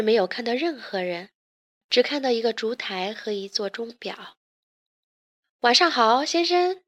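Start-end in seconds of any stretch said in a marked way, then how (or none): 5.6-6.8 lilting greeting rising high at the end. A narrator's reading. Talking candlestick greets the lost visitor, a lilting greeting. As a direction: greet a guest with an upward lilt. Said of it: "烛台向莫维斯打了个招呼".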